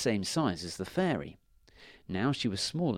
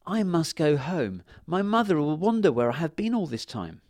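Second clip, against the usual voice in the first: yawning; 6 semitones higher, 4 dB louder than usual. A narrator's reading. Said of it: "she yawned and said".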